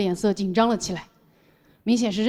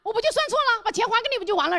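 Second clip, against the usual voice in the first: a hint of a brazen shopkeeper; lightly voiced arrogant boss; 10 semitones higher than usual. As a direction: toss it off like a cocky shop owner. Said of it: "气焰更嚣张". (老板嚣张地顶回去)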